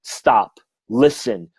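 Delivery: retold frustrated insistence, pitch rising as it builds. Medium pleading with a skeptical client, mildly frustrated. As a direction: press the point on a stubborn listener. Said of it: "I finally got really frustrated and said".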